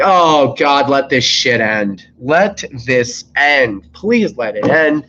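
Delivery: slow, drawn-out exhausted prayer; weary plea. Retold or imitated. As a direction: beg the shift to be over, dragging each word. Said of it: "And I'm like".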